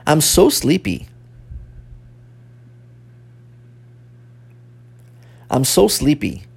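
careful English phrases for learners to repeat; language-teacher repeat-after-me delivery; pronunciation model. Shown as a demonstration. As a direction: model each phrase clearly, then leave a long gap. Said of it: "vamos começar a repetir a pronúncia dessas frases".

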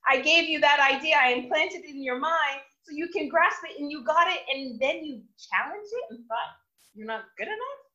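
a hint of a disappointed loving father; God gently scolding a doubter; lightly voiced God. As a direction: chide gently, you were so close. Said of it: "he's like".

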